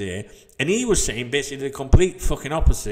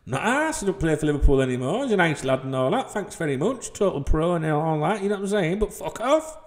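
mock dismissive retort; 5 semitones higher than usual. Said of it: "I was like".

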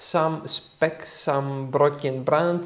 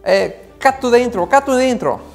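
calling out; 8 semitones higher, 8 dB louder, faster than usual. Real, not acted. Calls out to cut the edit.

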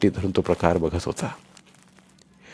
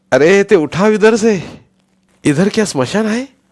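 high, loud, slow irritated shout; 11 semitones higher, 8 dB louder than usual. Acted. A worn-out policeman shouting at Deu to remove the body, irritated shout. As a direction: snap at him to move it away. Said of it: "कावून ओरडला".

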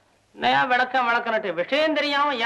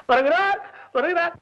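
high announcing call; raised, ringing call; 5 semitones higher than usual. Acted. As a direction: announce an arrival to the hall. Attendant announcing the minister's arrival.

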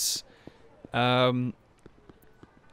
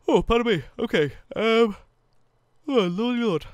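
excited exclamations; 9 semitones higher, 5 dB louder than usual. Real, not acted. High excited reaction.

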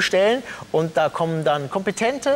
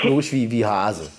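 slow, low disguised voice; drawn-out lowered fake voice; disguised deep voice; 7 semitones lower, slower than usual. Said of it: "meine Stimme verstellt".

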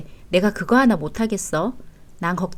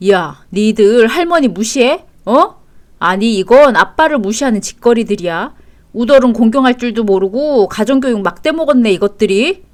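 raised, affronted voice; angry scolding; 4 dB louder than usual. Acted. Father accusing children of ignoring him, angry scolding. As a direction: lay into them as an insulted father.

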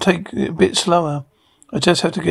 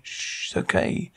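hushed whisper; 9 dB quieter than usual. Acted. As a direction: whisper it voicelessly and much softer. Mother soothing crying baby.

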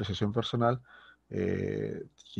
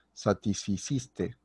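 slow model word; slower than usual. Shown as a demonstration. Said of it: "la conjugación sería satisficiste".

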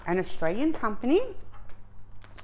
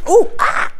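high unvoiced shriek then breathy laugh; startled yelp into laugh; 3 semitones higher, 6 dB louder than usual. Real, not acted. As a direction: caught off guard, laugh it off. Package surprise, laughing.

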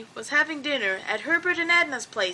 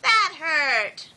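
higher, hurt outcry; pained exclamation; 5 semitones higher than usual. A narrator's reading. Luella after hitting her head with a walnut, pained exclamation. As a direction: exclaim it with a touch of pain. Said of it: "she shouted".

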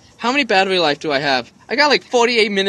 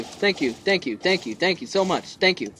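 relieved thanks; 6 dB quieter than usual. Real, not acted. Player finally getting health, quietly grateful.

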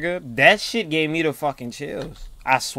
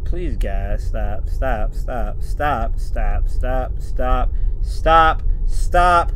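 fearful pleading; 3 semitones lower, 5 dB louder, much slower than usual. Real, not acted. Frightened player begs them to stop.

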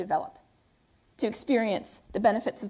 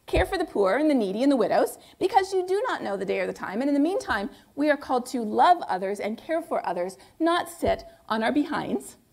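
stern Paul. Retold or imitated. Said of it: "he said very sternly".

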